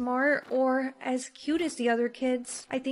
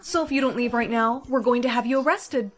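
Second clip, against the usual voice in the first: threatening; 4 dB louder than usual. Acted. Threatening the bully.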